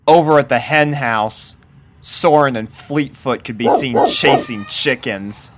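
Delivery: usual speaking voice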